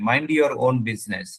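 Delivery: very slow, each English word set apart; slow emphatic proverb. Acted. Preacher telling the congregation, slow and emphatic. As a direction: lay the proverb down slowly and weightily.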